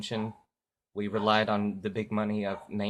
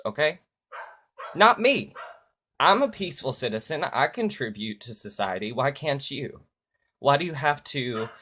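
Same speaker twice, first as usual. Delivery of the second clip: angry rant; 2 semitones higher, 5 dB louder than usual. Real, not acted. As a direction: rail at the people in power. Angry political rant about the election.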